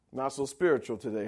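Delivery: ordinary talk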